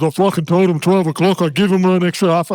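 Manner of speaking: angry coach barking about the bus time; retold angry outburst. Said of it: "He started blowing up".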